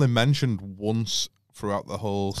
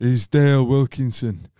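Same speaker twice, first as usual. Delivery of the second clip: mocking a friend. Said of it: "But I don't sound like that".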